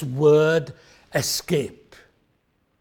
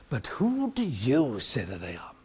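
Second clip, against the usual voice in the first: tense question; 7 semitones lower, 8 dB quieter than usual. Retold or imitated. Jesus asking the disciples, hushed and tense. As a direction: hold the dramatic tension. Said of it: "experience the tension".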